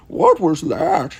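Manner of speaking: a frightened yelp. Acted. Sherlock yelps at the shadow, startled and loud. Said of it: "Sherlock yelped".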